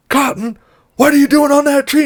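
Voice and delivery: high retold call up to someone; imitating a high-pitched call. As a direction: voice a worried shout up a tree, half-volume. Rooster calls up to stranded Cotton.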